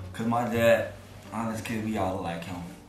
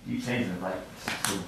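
drowsy dream mumble; sleep talking; 2 semitones lower than usual. Real, not acted. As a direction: talk like you're still dreaming. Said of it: "Why are you talking in your sleep?".

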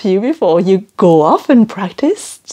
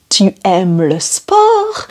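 slow clear question; slower than usual. Shown as a demonstration. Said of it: "So I'm gonna say".

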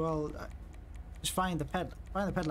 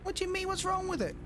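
indignant surprise; 3 dB quieter than usual. Real, not acted. Defends the old car indignantly.

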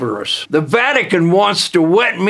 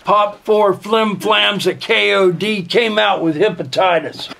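normal talking voice

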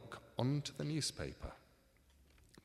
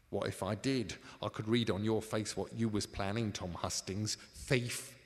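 gloating crook; 4 dB louder than usual. Acted.

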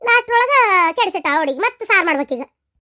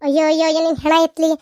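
lower, wailing curse; exasperated wail; 5 semitones lower, faster than usual. Acted. Mother-in-law wailing a curse at the lying girl. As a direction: groan out the lament at the girl.

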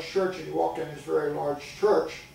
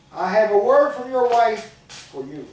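higher, louder and slow, pressing each word; insistent, louder; 5 semitones higher, 10 dB louder than usual. Acted. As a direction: push it like a persistent tempter. Stranger insists a second time.

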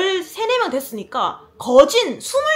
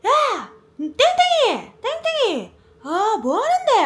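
calling out; 11 semitones higher, slower than usual. Retold or imitated. Boys yelling to her ex, mock shout. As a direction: holler at a friend down the street.

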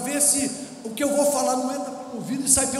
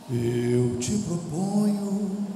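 slow tempting; 4 semitones lower, much slower than usual. Acted. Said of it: "Ele canta uma musiquinha".

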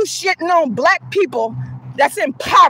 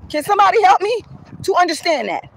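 raised, higher-pitched plea for help; exasperated shout; 6 semitones higher than usual. Real, not acted. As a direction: call out to the viewers in disbelief.

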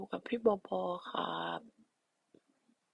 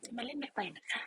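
cute soft voice; 5 semitones higher, 7 dB quieter than usual. Pretend. Repeats promise softer.

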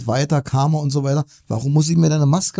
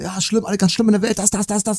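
a lightly voiced moaning friend, pitched higher; whiny doomsayer; 5 semitones higher than usual. Caller on the phone telling the host all is terrible, a touch of mock whining. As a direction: mimic a friend sighing that everything is terrible.

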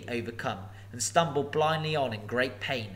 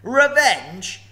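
higher, louder scornful roar; roaring dragon; 11 semitones higher, 12 dB louder than usual. Acted. Dragon mocking revenge, huge roar. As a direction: throw it to the ceiling. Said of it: "he snorted".

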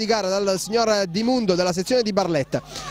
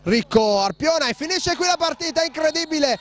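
excited commentary; 5 semitones higher than usual. Real, not acted. Final whistle after comeback goal.

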